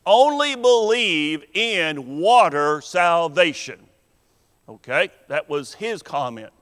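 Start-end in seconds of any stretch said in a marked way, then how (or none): 0.1-3.9 "only" stressed, the phrase slowed. Retold or imitated. Preacher quotes the part-time minister, stressing only. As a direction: lean hard on "only" when quoting him. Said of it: "he emphasized the word only".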